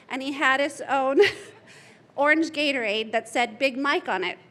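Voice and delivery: chuckling through the words; amused laugh in the voice. Real, not acted. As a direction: giggle while telling it. Funny story, laughter heard.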